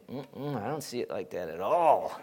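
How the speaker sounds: a hint of a doubting wife; imitating wife. Preacher quoting his wife turning down his view, lightly imitated. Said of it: "and then she'll say".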